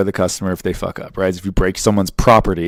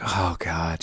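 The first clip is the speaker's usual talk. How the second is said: mom response; 4 semitones lower, 11 dB quieter than usual. Retold or imitated. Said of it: "like, mom response of".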